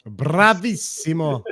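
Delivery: slow, drawn-out Italian Bravissimo; savoring Italian word. Retold or imitated. Streamer savoring the dog owner's Italian word, slowly. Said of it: "I just love that word".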